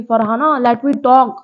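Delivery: imitating her snapping at Farhana in front of everyone; half-hearted shout of please stop; retold yell. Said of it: "इतनी तेज चिल्लाया था".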